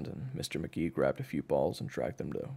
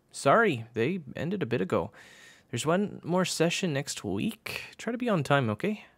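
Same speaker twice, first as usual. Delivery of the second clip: high, raised coach voice; higher-pitched coach brushing off a latecomer; offhand coach; 11 semitones higher, 3 dB louder than usual. Acted. Coach turns away a late player, offhand high voice.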